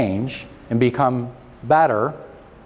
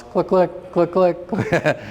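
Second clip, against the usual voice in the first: mimicked projector clicks; 5 semitones higher, slower than usual. Mimics old slide carousel.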